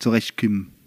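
"zurechtkommen" in a put-on East German accent; East German dialect. Warning listeners about the dialect, "zurechtkommen" in mock East German. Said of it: "mit dem ostdeutschen Dialekt".

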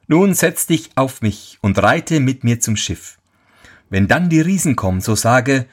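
lightly voiced helpful horse; talking horse. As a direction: instruct him like a wise little horse.

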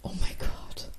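breathless unvoiced whisper; whispered oh my god. Real, not acted. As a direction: whisper it in disbelief. Stunned reaction.

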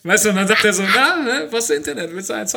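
sleazy dealer offering a fix; shady dealer. Pretend. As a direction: sell internet like contraband. Dealer voice acted out.

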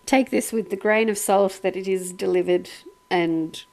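hushed mock disclaimer; mock disclaimer whisper. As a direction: murmur the disclaimer like a secret aside. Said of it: "put a disclaimer at the start and say".

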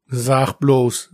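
suppressed smile. Acted. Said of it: "mit Mühe ein Lächeln unterdrückend".

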